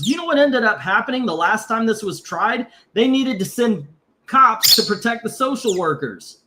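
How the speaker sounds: getting riled up, pitch climbing; worked up. Real, not acted. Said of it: "I'm getting all worked up and everything".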